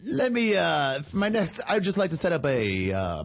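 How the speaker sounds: grandstanding defense attorney; honeyed southern lawyer drawl. Pretend. Mock lawyer addressing court.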